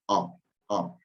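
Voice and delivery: "O, O" clipped fast, as a native speaker says it; said quickly. Shown as a demonstration. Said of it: "lo dice rapidito".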